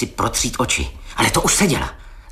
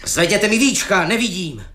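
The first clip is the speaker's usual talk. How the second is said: lightly voiced ghostly command; sepulchral voice; 8 semitones higher than usual. King of gnomes demanding his eyelids raised, lightly voiced sepulchral call. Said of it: "řekl záhrobním hlasem".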